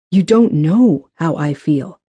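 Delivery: slow, with weight on DON'T KNOW; emphatic rebuttal. A narrator's reading. Benton rebuts Grace, slowly stressing "don't know". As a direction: stretch "don't know" deliberately.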